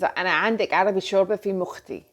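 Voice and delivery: quick, easy Arabic catchphrase; Arabic phrase. Shown as a demonstration. Vlogger quoting her Arabic soup line, said fast. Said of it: "like to say".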